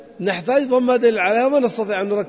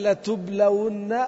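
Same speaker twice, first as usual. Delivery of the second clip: slow demo; much slower than usual. Shown as a demonstration. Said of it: "ما الفرق بين".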